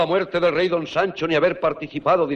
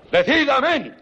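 sharp, raised command; commanding demand; 7 semitones higher, slower than usual. Acted. Rodrigo forces the king's oath. (ordenando con fuerza)

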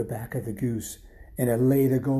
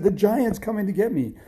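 high, urgent cry for help; panicked warning; 9 semitones higher, 3 dB louder than usual. A narrator's reading. Boy warning his mom of the giant, panicked. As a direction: blurt it out in a panic.

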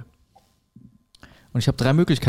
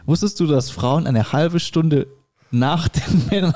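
stifled giggles. Real, not acted. Joke retold through laughter.

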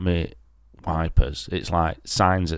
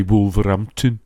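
Wolverhampton said in a broad Black Country accent, higher; 4 semitones higher, 3 dB louder than usual. Shown as a demonstration. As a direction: give it the local Wolverhampton twang. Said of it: "when I get to say Wolverhampton".

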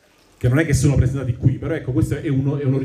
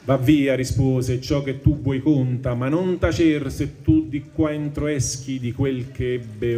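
poem recitation; 2 semitones higher than usual. Acted. Teacher reading the Inferno to the class, measured recitation. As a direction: recite the tercets with weight. Bocca names others, verse.

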